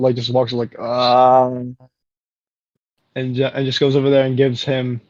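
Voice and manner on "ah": sleepy drawn-out ah; groggy childlike groan. Acted. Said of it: "groggily like a child".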